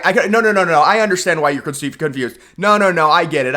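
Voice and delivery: sarcastic, exaggerated understanding; mock sympathy. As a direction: talk down to them like a confused child. Mocking the campaign's confusion.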